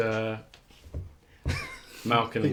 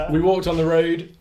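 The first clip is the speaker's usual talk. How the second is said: hyped, giggly energy; wired and buzzing; too much caffeine; 5 semitones higher, 8 dB louder than usual. Real, not acted. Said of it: "He shouldn't be allowed to have caffeine".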